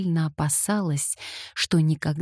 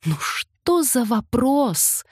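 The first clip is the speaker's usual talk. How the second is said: laughing; 8 semitones higher, slower than usual. A narrator's reading. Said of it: "заливаясь хохотом".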